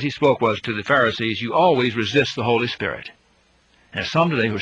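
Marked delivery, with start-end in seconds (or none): 1.4-3.1 a touch of the martyr Stephen rebuking, in a changed voice; speaking as Stephen. Retold or imitated. Preacher quotes Stephen's words to the Pharisees, lightly voiced rebuke. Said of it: "I almost feel like speaking as Stephen".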